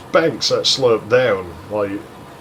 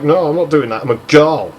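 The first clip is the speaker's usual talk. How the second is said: indignant mock refusal, higher and louder at the end; retold whining; 4 semitones higher, 5 dB louder than usual. Girl refusing to squat under a tree, mock indignant whine. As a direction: imitate a whiny refusal. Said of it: "she just kept whining at me".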